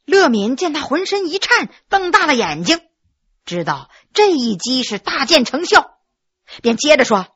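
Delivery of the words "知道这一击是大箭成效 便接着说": ordinary delivery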